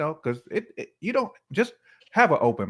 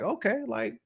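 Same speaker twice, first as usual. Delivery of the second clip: much higher, playful guy voice; imitating a smitten guy; 6 dB quieter than usual. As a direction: play a dude who is into her. Imitating a man's inner thoughts.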